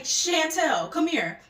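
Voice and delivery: high, loud call to a friend. Retold or imitated. Party girl calling her friend over, imitated loud high call. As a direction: summon someone across the party.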